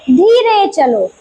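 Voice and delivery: slow, drawn-out model phrase; slow demo. Shown as a demonstration. Teacher models a slow walk phrase for kids. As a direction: say it slowly, like the baby walking. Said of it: "क्या है sentence".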